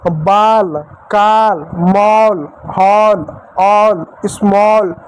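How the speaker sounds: drawn-out "aw" vowel in बाल, काल, मॉल, हॉल. Shown as a demonstration. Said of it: "ओ की मात्रा पढ़ते हो". (बाल, काल, मॉल, हॉल में लंबा ऑ बोलें)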